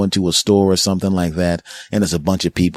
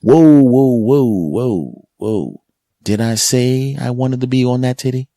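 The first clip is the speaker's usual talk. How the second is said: loud higher protest; indignant baby; 6 semitones higher, 3 dB louder than usual. Retold or imitated. Baby protesting being switched to the other breast, loud. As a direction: object like a startled baby. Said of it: "the baby's like".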